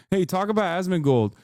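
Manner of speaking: high, loud sneering parody of the troll; mocking chatter. Streamer quoting the troll's comments, loud whiny mock. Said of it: "we can see your other comments".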